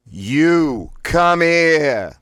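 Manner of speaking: each word blasted high, loud and very slow; three words blasted. Shown as a demonstration. Voice exercise, "You come here" blasted word by word. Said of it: "Blast out all three words individually".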